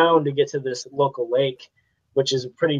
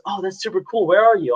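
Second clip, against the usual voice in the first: lightly imitated cop, higher pitch; impressed cop; 5 semitones higher than usual. Kid retelling cop's interest in his photos, lightly imitating an impressed cop. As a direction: play the cop turning friendly and interested. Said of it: "and he goes".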